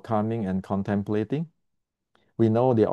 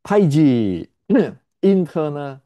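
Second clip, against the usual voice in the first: higher, louder mock-grand scoff; mocking scorn; 4 semitones higher, 6 dB louder than usual. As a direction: spit out the jargon with contempt. Mocking rival martial arts claims.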